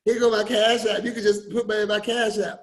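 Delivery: lightly voiced friend's quip; breezy mock offer; a hint of Miss Dyer's joking tone; imitating Miss Dyer. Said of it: "That's how she talked".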